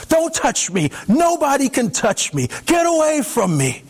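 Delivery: high, frantic cries to keep him away; a terrified stranger shrinking from a touch; panicked recoil. Acted. Fumbling frantically with the door.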